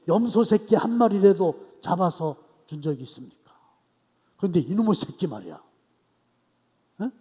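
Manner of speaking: the wronged son demanding his due; defiant complaint. Acted. The elder son defying his father, loud and resentful. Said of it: "막 대드는 거".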